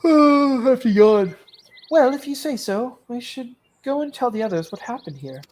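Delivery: high, loud companion; a cheerful friend voice. Acted.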